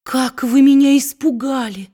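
high, loud startled cry; wife startled by her husband's shout; frightened exclamation. A narrator's reading. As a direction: gasp it out, heart still pounding. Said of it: "воскликнула несчастная женщина".

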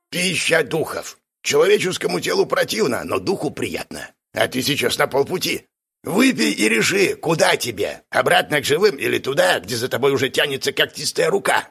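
lightly hammed-up cryptic instruction; theatrical shaman, mildly insistent; animated Gidzhin the exorcist.

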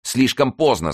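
high, loud cry of despair. A narrator's reading. Mazarin despairs as gates give way, high cry. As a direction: clutch your head and cry out. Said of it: "сказал Мазарини, хватаясь за голову".

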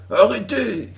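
high ringing stop call; cry of halt. A narrator's reading. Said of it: "s'écria notre héros".

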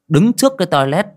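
ordinary delivery

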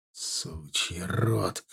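low, soft, very slow curse; muttered through teeth. A narrator's reading. Soldier spitting out water curses, through his teeth. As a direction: squeeze the curse out slowly. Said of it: "процедил я".

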